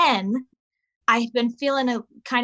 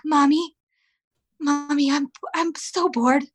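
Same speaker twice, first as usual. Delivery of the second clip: put-on higher, whiny little boy nagging mom; whiny six-year-old; 4 semitones higher than usual. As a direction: whine like a bored kid tugging at mom. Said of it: "he's like".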